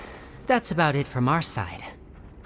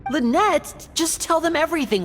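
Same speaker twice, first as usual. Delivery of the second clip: much higher, brighter urging of his sister; teasing nudge; 12 semitones higher than usual. Acted. Brother urges Lynette to share everything, teasing much higher. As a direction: coax her, half teasing.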